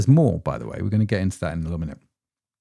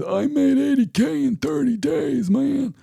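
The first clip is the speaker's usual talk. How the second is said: put-on American accent. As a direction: hype it up like a course-selling American. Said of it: "stop doing that accent now".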